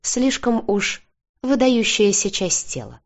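mildly amused, slow and mock-serious; holding back laughter. A narrator's reading. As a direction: tease while suppressing a laugh. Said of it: "стараясь не заржать".

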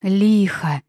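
a loud yell of the name. A narrator's reading. Heroine yells for her fallen friend, loud. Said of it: "заорала".

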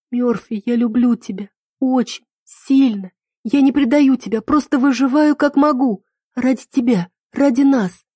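высоко, с надрывом; умоляй о прощении, почти плача; отчаянное признание. A narrator's reading. Героиня шепчет признание в отчаянии. (отчаянное признание в любви Мёрфи)

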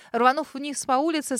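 plain reading voice

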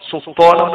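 "سلطانا" as sut-taana, no l heard; wrongly merged lam. Shown as a demonstration. Teacher repeats the forbidden reading for students, lam merged. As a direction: double the t in "سلطانا" in place of the l. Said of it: "ما ينفعش".

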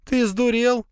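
squealing. Acted. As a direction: squeal in alarm at him. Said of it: "взвизгнула Лея". (визгливо)

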